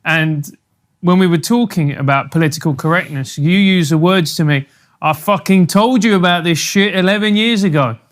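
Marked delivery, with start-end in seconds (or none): 5.0-8.0 light mock Australian accent; imitating the guest's Australian accent. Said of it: "That's his best Australian accent".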